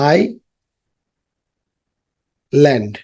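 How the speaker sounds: আইল্যান্ড drawn out very slowly, syllable by syllable; slow teacher modelling of আইল্যান্ড; slowly stretched. Shown as a demonstration. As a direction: stretch আইল্যান্ড out long for the class to copy. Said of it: "slow drawn-out repeat".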